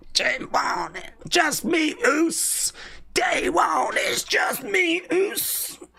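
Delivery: half-whispered, breathy hype lines; imitating Jey Uso. Fan echoing Jey's entrance, soft half-whispered hype. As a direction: mimic the entrance catchphrase.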